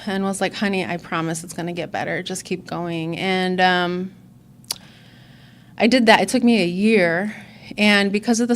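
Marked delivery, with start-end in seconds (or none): 0.5-3.2 soft, gentle reassurance. Retold or imitated. Sponsor comforting a struggling newcomer, gently. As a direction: hush it kindly like a loving sponsor. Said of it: "she was loving and comforting and encouraging".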